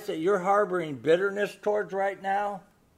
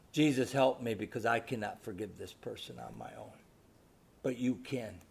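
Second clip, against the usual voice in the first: quiet, hushed plea to Jesus; soft prayer; 8 semitones lower, 11 dB quieter than usual. Retold or imitated. Woman praying silently for help to forgive. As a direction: pray it under your breath.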